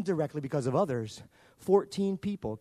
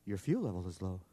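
computer voice; 8 semitones lower, 7 dB quieter than usual. Retold or imitated. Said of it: "the little woman came on and said".

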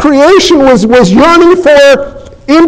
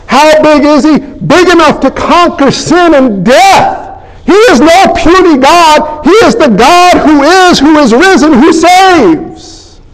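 building proclamation; 4 semitones higher than usual. Acted. Sermon climb to climax.

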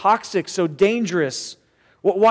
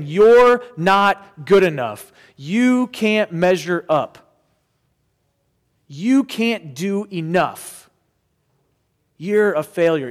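accusing voice; 3 dB louder, slower than usual. Retold or imitated. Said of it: "if you hear that voice saying".

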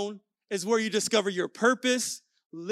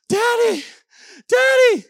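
high, loud cry for daddy; urgent little-kid shout; panicked child; 11 dB louder than usual. Retold or imitated. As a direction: mimic a kid yelling as if it's an emergency. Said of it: "Like, it's an emergency".

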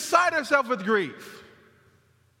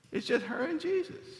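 softer, higher hushed line; 6 semitones higher, 6 dB quieter than usual. Real, not acted. Preacher picturing Mary alone with Jesus, hushed. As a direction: say it softly with high pitch, in awe of the moment. Hushed take before louder repeat.

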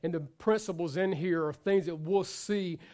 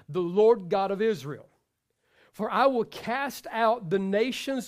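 slow, measured reading; scripture reading. Acted. Preacher reading Exodus to men, slow. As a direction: read each phrase deliberately.

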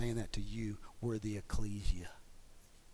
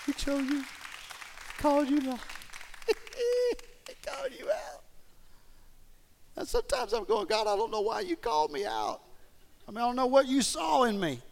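full-force preaching shout; 7 dB louder than usual. Real, not acted. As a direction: shout it out to the whole room. High loud preaching climax.

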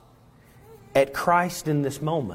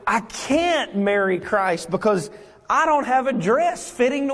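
protesting believer; 8 semitones higher than usual. Acted.

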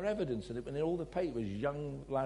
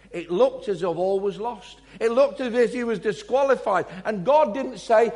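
rising preacher's climax; 4 semitones higher, 8 dB louder than usual. Real, not acted.

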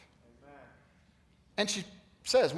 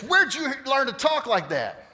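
shocked dad; 10 semitones higher, 7 dB louder than usual. Retold or imitated. Dad shocked at son's swearing.

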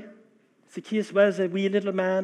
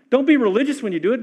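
fervent exhortation; 5 semitones higher, 5 dB louder, faster than usual. Real, not acted. Preacher's rising exhortation.

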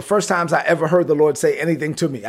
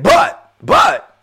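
voice of the Holy Spirit; much slower than usual. Retold or imitated. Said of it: "I hear the Holy Spirit say again".

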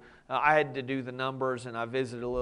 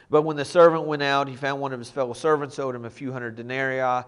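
normal talking voice

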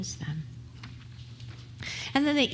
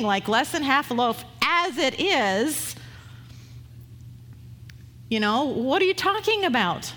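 exasperated pushback; 4 semitones higher than usual. Retold or imitated. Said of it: "There's a lot more pushback there".

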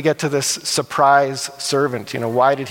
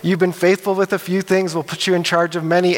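pleased master; 3 semitones higher than usual. Acted. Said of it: "the master is excited for him".

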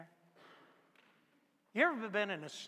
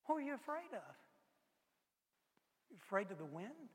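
gentle questioning; 6 dB quieter than usual. Acted. Jesus gently questions disciples.

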